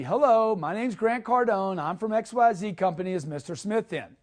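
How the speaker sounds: bright, salesy Hello that sinks at the end; wrong way, salesy. Shown as a demonstration. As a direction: sound like a typical salesperson. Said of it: "Example of the wrong way".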